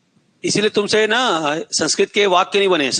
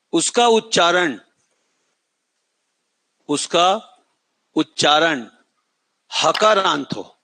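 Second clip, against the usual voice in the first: उसका उच्चारण said slowly for writing; slow dictation pace; slower than usual. Shown as a demonstration. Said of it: "फिर से बोल रहा हूं".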